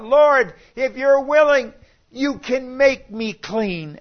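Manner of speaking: loud, high, desperate plea; crying out. Acted. The leper crying out to Jesus, loud and pleading. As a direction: call out to Jesus across the crowd. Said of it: "He cried out".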